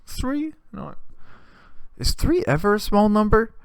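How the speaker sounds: high-pitched, indignant protest; imitated aggrieved coworker. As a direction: complain in a squeaky put-on voice. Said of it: "he would oftentimes explain these things like".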